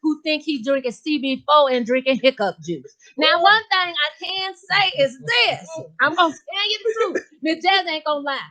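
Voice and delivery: sassy gossiping lady voice, lightly voiced; Miss Jazzy character voice. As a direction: play a brassy gossip.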